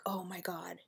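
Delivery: hushed oh my god. Retold or imitated. Reacting to burned wires.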